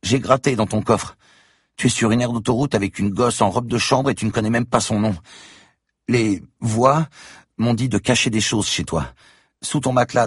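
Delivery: put-on high child voice, sly and taunting; a child gloating over her blackmail; scheming little girl. A narrator's reading. Girl taunts Franck about hidden things, high sly child voice.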